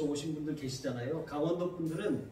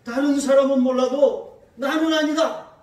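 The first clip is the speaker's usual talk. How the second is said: much louder and higher, 사람은 punched; loud denial; 7 semitones higher, 12 dB louder than usual. Shown as a demonstration. Peter loudly denying he knows Jesus. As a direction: insist loudly on 나는 아니다. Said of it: "거꾸로 말하고 있는 것입니다".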